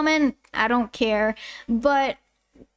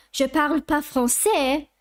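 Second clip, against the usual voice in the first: slight French accent. Shown as a demonstration. Telling viewers she can't speak French, in a slight French accent. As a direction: say "Je parle pas français" with a light native French accent. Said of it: "I still have a slight French accent".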